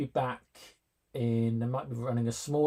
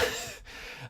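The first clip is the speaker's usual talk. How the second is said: spluttering laugh; 8 dB quieter than usual. Real, not acted. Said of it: "choking on my own tea".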